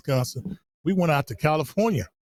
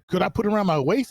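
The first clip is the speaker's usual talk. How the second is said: eager shout; 4 semitones higher, faster than usual. Retold or imitated. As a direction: blurt it out like a keen country boy. Naive question to the clerk.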